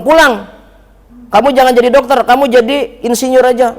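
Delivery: a hint of a bossy father. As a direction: snap the command. Father orders son home.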